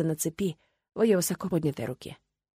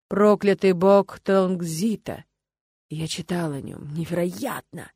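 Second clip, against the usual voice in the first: awed; slower than usual. Acted. Awed recognition of the god.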